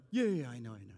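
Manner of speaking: dismissive brush-off. Retold or imitated. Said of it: "we're like".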